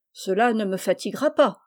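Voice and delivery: ton péremptoire, ferme; peremptory. Acted. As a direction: trancher sans réplique. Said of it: "d'un ton péremptoire". (d'un ton péremptoire)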